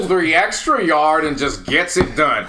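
lightly mimicked football analyst, drawn out; Collinsworth. Podcaster correcting his friend's analyst impression, lightly imitated. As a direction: savor the praise like a TV commentator, slowly. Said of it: "nah, Collinsworth is".

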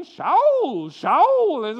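put-on Shaul called out in a loud Jewish accent, slow. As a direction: call Shaul slowly in a Jewish mother's accent. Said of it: "in her nice Jewish accent".

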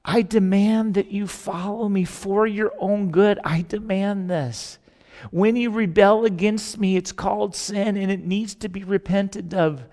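slow, measured, lightly voiced divine command; solemn God. God telling wandering Israel of his holiness, slow and solemn. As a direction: lay down the law slowly and firmly, with weight on each phrase.

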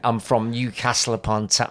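weak attempt at a Scouse accent; Anvil's Scouse accent. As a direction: imitate a Scouse comic, not quite managing it. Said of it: "I can't do Anvil's accent".

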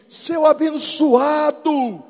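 high, slow, loud mocking curse; mock insult. Pastor cursing the usher, high mock yell. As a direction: spit out a pious insult. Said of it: "Você sabia que crente xinga?".

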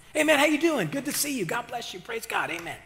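high start, tossed-off pious pleasantries; mock church greeting. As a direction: imitate a chummy churchgoer lightly. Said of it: "No, that's not what I do".

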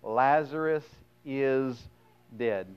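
"Lazarus ... is ... dead" in separate words, a pause before each; "dead" set apart after a deliberate pause; stated plainly. A narrator's reading. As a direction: spell it out plainly, pausing between "Lazarus", "is" and "dead". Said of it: "Then said Jesus unto them plainly".

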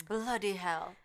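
slow mock-British delivery; British accent. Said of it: "the British".

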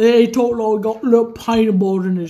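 put-on low, mumbled British gangster accent; deep put-on British accent; Tom Hardy as Alfie Solomons. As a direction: mumble low as if mouth is full. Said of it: "so this is my impression".

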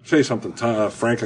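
talking through a mouthful; words round a bite of food; mouth full. Real, not acted. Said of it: "I got my mouth full here".

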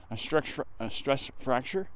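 words slurred by a numb mouth; stumbling over the words, mouth too cold. Real, not acted. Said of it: "my mouth is so cold I can't even speak".

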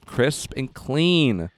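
very slow, savoring each word; drawn-out tagline. Acted. Co-host savoring the show tagline, very slow. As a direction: stretch it like an ad. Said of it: "slow tagline delivery".

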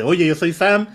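Sam's indignant boast. Retold or imitated. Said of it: "pues, dice".

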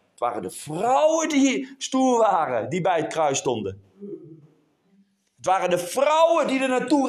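forceful stress on key nouns; insistent sermon storytelling; emphatic preaching. Real, not acted. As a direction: drive the story home to the congregation. Preaches about the women.

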